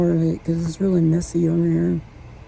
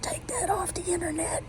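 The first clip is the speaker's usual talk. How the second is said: imitated yell, jumping to a thin, high, hushed screech; mock dad yell; 5 semitones higher than usual. Retelling a dad cursing over a house tour video, mock yelling. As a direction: yell it like an angry dad, but strained and held down in volume. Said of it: "started yelling and cursing".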